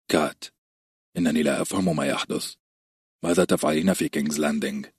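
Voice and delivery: a troubled husband pressing for news; worried Ned. Acted.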